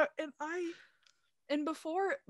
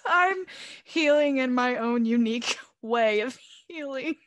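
laughing loudly; 5 dB louder than usual. Real, not acted.

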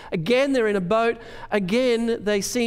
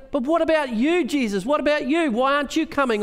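higher, pleading disciple; imagined Peter; 4 semitones higher than usual. Retold or imitated. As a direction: beg him to come along. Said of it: "can you hear Peter".

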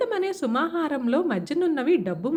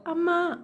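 a higher yelp of pain after a slap; cry of pain; 6 semitones higher, slower than usual. Acted. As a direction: yelp as if struck. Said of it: "అంటూ అరిచింది".

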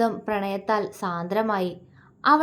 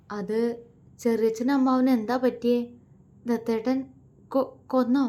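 fearful question. Acted. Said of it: "അവൾ അവനെ അള്ളിപ്പിടിച്ചുകൊണ്ട് പേടിയോടെ ചോദിച്ചു".

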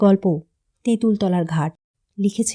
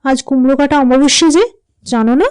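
surprised; 5 semitones higher than usual. Acted. Boy asks his mother, high and surprised, about his bread. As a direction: ask in wide-eyed surprise. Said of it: "ও বিস্মিত সুরে বলল".

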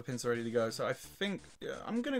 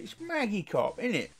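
put-on much higher, jokey London market English accent; hammed-up English twang; 6 semitones higher than usual. Gamer mocking his own Englishness in a high, hammed-up London accent. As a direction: play a cheeky London market trader with a thick English accent. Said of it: "It's got that English twang to it".

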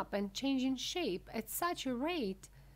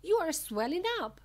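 high, loud horrified cry; raised, high-pitched warning; scream; 8 semitones higher, 6 dB louder than usual. A narrator's reading. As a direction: scream it as an alarmed mother. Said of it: "screamed Missus Beauregard".

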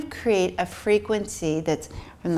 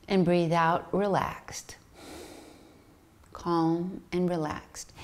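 slow soft whisper on the out-breath; whispered mantra; 4 dB quieter than usual. Shown as a demonstration. Meditation teacher whispering on the exhale. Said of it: "breathe in calm".

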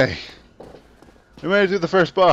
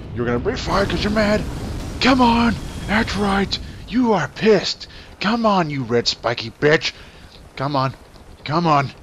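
loud taunting; 4 semitones higher, 3 dB louder than usual. Real, not acted. Player taunting angry dragon boss.

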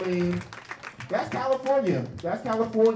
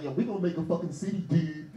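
a lightly voiced surfer-bro hippie, louder; laid-back hippie; 3 dB louder than usual. Comic imitating California hippies founding a city, lightly voiced surfer bro. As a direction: play a stoned California bro making plans. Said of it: "They're like".

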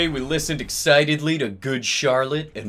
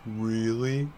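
softer, tender question; sensitive; 3 semitones lower, 7 dB quieter than usual. Acted. Draco asking Ebony for reassurance, sensitive. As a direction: ask it gently, a little wounded. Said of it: "I asked sensitively".

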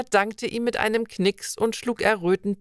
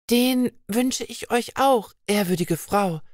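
happily; 3 semitones higher than usual. Acted. Vibeka bids the old woman farewell, happily. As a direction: gladly, voice lifted high. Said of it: "entgegnete Vibeka glücklich".

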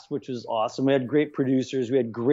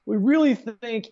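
network executive; 10 semitones higher, much slower than usual. Retold or imitated. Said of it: "having the network go".

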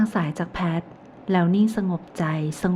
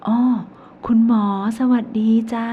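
put-on cheerful old lady; 4 semitones higher, 5 dB louder than usual. A narrator's reading. Old woman greets doctor.

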